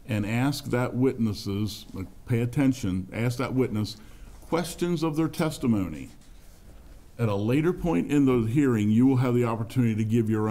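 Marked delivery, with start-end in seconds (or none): 4.4-6.1 "questions" pitched high, falling away through testimony; stress on questions. Real, not acted. Chair instructing the audience on what to ask, stress on "questions". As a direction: hit "questions" high to mark the limit.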